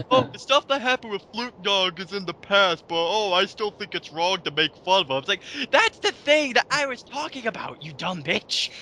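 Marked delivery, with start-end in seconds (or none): 0.1-5.2 laughing mock of her words; snide parody of the critic; mocking quote. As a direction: sneer her excuse back at her.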